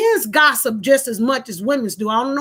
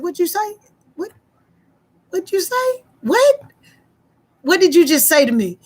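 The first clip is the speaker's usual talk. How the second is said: retold stunned disbelief, pitched high; incredulous; 4 semitones higher than usual. Woman hearing she's accused of cheating, incredulous.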